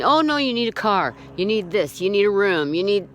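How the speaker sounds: nagging list of demands, mildly mocking; mock insistence. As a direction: mimic someone pushing needless extras. Mocks his insistence in quote.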